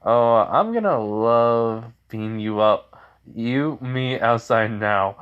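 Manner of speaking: mildly angry, loud opening threat; ticked-off threat. Acted. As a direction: act out someone ticked off, leaning on the words. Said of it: "she just is ticked off".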